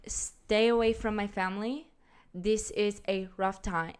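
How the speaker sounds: lightly put-on Latin accent; bad Latin accent. Host retries her plea for family privacy, bad Latin accent. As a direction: badly fake a Latin accent. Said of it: "this accent's gonna suck".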